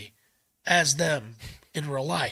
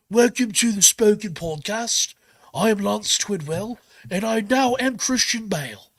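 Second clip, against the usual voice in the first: a hint of a put-on Bale voice, slowed a little; lightly voiced, slower mock intro as an actor he admires; Christian Bale impression; 2 semitones higher than usual. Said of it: "Imagine if I start going on the show".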